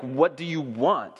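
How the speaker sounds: slow, earnest "What do you want?"; sincere, for real. Shown as a demonstration. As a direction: ask "What do you want?" slowly, meaning it. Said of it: "I say that very, for real".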